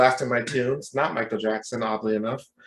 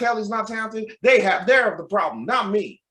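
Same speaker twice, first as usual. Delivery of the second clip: high-pitched, insistent Southern fan; Southern accent; 8 semitones higher, 3 dB louder than usual. Retold or imitated. Gym stranger blames the doubters, Southern accent. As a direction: argue back in an imitated Southern accent. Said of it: "with Southern accent".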